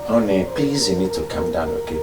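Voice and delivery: calming, hushed appeal; soothing. Acted. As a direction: gently talk an angry spouse down. Soothing an angry spouse.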